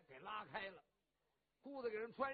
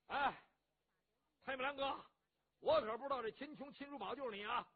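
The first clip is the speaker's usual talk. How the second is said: blustering rough hero; 3 semitones higher, 5 dB louder than usual. Acted. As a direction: boom it out, boastful and warm-hearted. Cheng Yaojin voiced at length.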